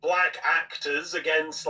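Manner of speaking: mock a self-appointed protector's solemn vow; mocking imitation. Podcaster mimicking a commentator taking a stand, mocking.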